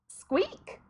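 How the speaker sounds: high squeaky rat voice, rising; a curious rising squeak. Acted. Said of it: "said the death of rats".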